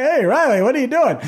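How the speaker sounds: high, loud surprised hail; shouting his name in happy surprise; excited call out. Retold or imitated. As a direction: call out across the finish line. Winner calling out to announcer.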